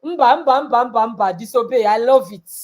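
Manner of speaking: teasing scornful mother voice; mock her sudden obedience. Mother teasing her begging daughter, scornful. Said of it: "I said".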